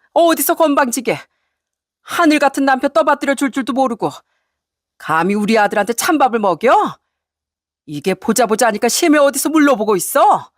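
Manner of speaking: indignant scolding tirade; angry mother-in-law. Acted. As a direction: berate the insolent daughter-in-law. Mother-in-law scolds while pulling hair. (괘씸해하며 호통치는 시어머니)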